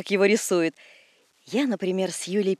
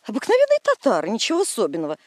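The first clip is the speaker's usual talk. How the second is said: scornful; faster than usual. Acted. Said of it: "сделала презрительную гримаску".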